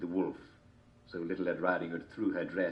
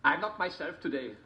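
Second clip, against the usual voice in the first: wolf voice; 9 semitones higher than usual. A narrator's reading.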